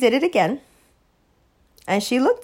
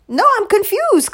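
mock confusion; 10 semitones higher, 4 dB louder than usual. Real, not acted.

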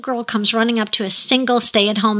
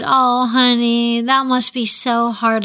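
slow, drawn-out sympathy; empathic, loving; slower than usual. Retold or imitated. Father acknowledging his child's upset, empathic and loving. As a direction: linger tenderly on each phrase. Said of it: "an empathic, loving response".

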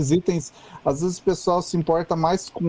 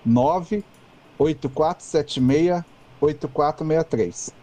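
over enunciating. Shown as a demonstration. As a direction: spell out each digit deliberately. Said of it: "vou falar devagar".

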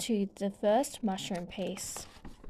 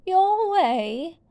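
much higher, louder outraged queen; shouted; 8 semitones higher, 6 dB louder than usual. A narrator's reading. Queen of Hearts shouts at Alice in outrage. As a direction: snap back in royal fury. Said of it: "the Queen shouted".

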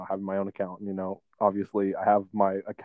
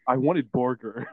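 laughing while quoting; slower than usual. Real, not acted. Mimicking kid, laughing.

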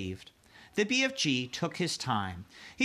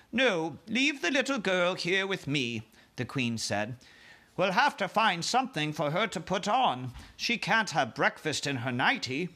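queen voice; 5 semitones higher than usual. Acted.

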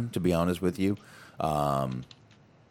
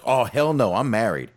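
loud, higher, emphatic "Oh, hell no"; imitating an excited refusal; 5 semitones higher, 5 dB louder than usual. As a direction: echo her delighted horror. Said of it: "just the way she said it, the enthusiasm".

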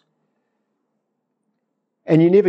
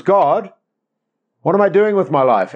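higher, urgent mock plea; mounting urgency; 6 semitones higher than usual. Believer growing anxious before God, mounting urgency. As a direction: press God harder, pitch raised. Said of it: "not long later, it becomes".

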